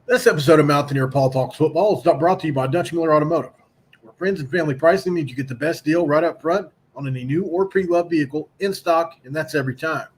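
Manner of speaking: upbeat, brisk car dealer ad read. Acted. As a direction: sell it like a radio spot. Reads sponsor ad.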